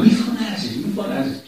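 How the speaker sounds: retold quarrel. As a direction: imitate someone hushing an arguer. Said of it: "και μαλώσαν".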